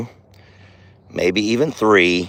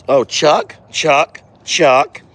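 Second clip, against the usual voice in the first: raised, louder warning call; calling out sharply; 5 semitones higher, 4 dB louder, much slower than usual. Real, not acted. Farmer calling off the steer who stole the muffin, sharp raised call. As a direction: call him off, sharp and higher.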